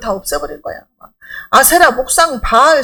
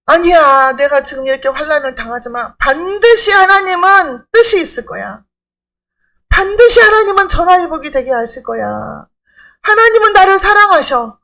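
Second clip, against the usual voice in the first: louder, emphatic voice of faith; firm defiant declaration; 4 dB louder than usual. Acted. Believer rebutting doubt in the middle of hardship, firm and defiant. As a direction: push back with loud conviction.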